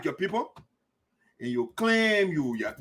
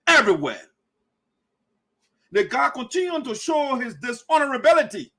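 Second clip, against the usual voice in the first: heated denunciation; 5 semitones higher than usual. Real, not acted. Ranting against Green's lies.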